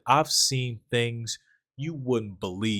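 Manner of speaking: mock gravitas, drawn out; a touch of haunted old man; slow ominous mock. Retelling Dafoe's ominous line.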